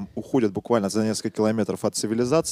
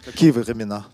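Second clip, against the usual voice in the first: put-on French accent; 3 dB louder than usual. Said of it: "Почему с французским акцентом?".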